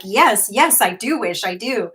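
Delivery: retold eager yes, loud at first; keen, emphatic agreement, acted out; eager acceptance. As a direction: jump at the offer, then ease off. Acts out eager reply to offer.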